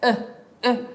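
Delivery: "E" as a short neutral "uh"; neutral schwa. Shown as a demonstration. Teacher demonstrating the schwa, a neutral vowel. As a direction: grunt a vowel between A and E. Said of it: "no suena ni como A ni como E".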